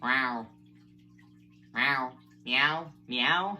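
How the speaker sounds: a fuller meow, no squeak; present-day meow. Shown as a demonstration. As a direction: meow at ordinary speaking pitch. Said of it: "And this is now".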